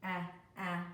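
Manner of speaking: ah, ah, the short a of rat; short a sound. Shown as a demonstration. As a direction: model the short a twice. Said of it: "That's the short A".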